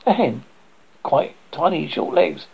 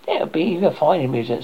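sarcastic hen; 2 semitones higher, faster than usual. Acted. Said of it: "said the hen".

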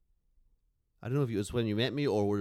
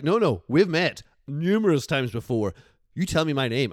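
put-on sassy southern accent; 3 semitones higher, 7 dB louder than usual. Bethany scolding David in a sassy Southern accent. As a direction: put him in his place with a Southern accent. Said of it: "She got all sassy, very southern angry".

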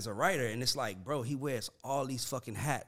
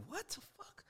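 shocked disbelief; 16 dB quieter than usual. Retold or imitated. Reacting to Tehran's claim.

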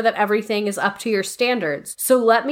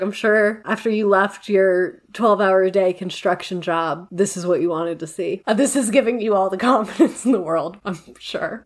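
sarcasm; 3 semitones lower than usual. Retold or imitated. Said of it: "I was like".

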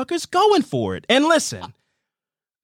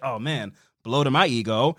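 put-on deflated teenage boy; 5 semitones lower, 3 dB quieter than usual. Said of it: "he takes it like a fifteen-year-old boy".

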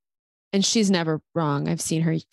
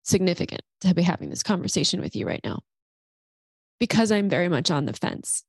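crying. Real, not acted. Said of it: "the reason why I'm crying".

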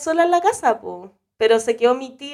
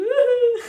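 imitated running scream; 14 semitones higher than usual. Woman running out of the house, mock high squealing scream. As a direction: squeal like someone fleeing, held back in volume. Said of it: "gritando con los brazos arriba".

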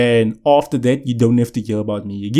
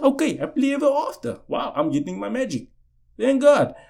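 giddy excitement; 11 semitones higher, 4 dB quieter than usual. Retold or imitated. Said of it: "Now I thought".

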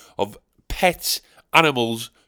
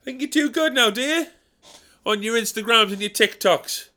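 high, whiny self-pitying moan; martyred grumbler; 8 semitones higher than usual. Acted. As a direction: sulk like a put-upon martyr. Old Dick Lips persona.

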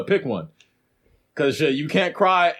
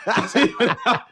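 laughing repeat; 7 semitones higher, faster than usual. Retold or imitated. Repeats dad's line, laughing.

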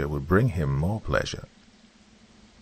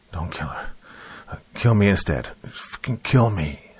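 roaring; 2 semitones higher than usual. Acted. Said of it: "Malcolm roared at Arnando".

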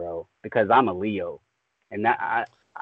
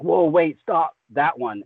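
retold sudden interruption; 5 semitones higher than usual. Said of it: "And he was like".

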